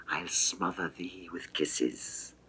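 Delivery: hushed, close to the ear; soft, intimate. Acted. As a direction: drop to a soft murmur on the promise. Venus woos the boy.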